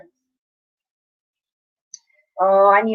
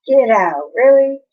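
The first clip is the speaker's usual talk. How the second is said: higher, louder "Get out, really?" in amazed disbelief; mock disbelief; 4 semitones higher, 5 dB louder than usual. Shown as a demonstration. Streamer demoing how he says get out to friends, amazed. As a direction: act amazed at a friend's news. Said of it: "I say it to Kilgore and everyone".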